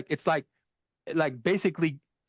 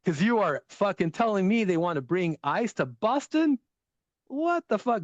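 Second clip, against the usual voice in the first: mock outraged Bostonian; 5 semitones higher than usual. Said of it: "here's what he said".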